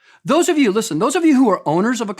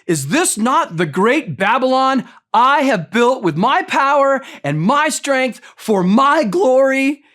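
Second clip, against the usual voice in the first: boastful king; 3 semitones higher, slower than usual. Retold or imitated. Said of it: "he says".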